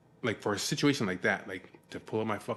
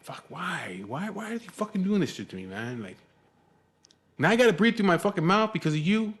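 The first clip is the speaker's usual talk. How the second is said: high-pitched indignant griping, getting louder; exasperated complaint; 8 semitones higher, 4 dB louder than usual. Retold or imitated. Man silently blaming a smelly stranger in the waiting room, exasperated. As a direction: whine it in protest, building to a loud accusation.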